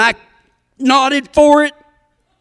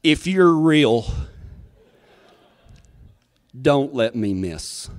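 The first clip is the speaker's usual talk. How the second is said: hushed prayer; 11 semitones lower, 6 dB quieter than usual. Retold or imitated. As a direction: plead quietly with God. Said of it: "I've never prayed so hard in my life".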